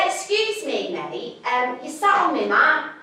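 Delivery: politely asking the hippie to move; a mild, overly polite request. Retold or imitated. To the hippie on her yoga mat, polite. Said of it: "I was polite".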